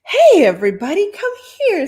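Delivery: loud, high call to the room; excited call. Acted. Host calling the party guests over, loud and excited. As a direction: call everyone over, thrilled. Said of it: "said the man excitedly".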